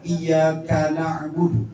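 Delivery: iya kana budu split as iya, kana'budu; wrong word break. Shown as a demonstration. Teacher shows a faulty reading, wrong word break. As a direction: join ka onto na in kana budu. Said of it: "bukan gini, Bu, bacanya".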